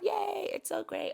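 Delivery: high, slow, hammed-up gushing; mock gushing. Coach mocking a shallow script with hammed-up gushing. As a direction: overdo the excitement as a shallow example.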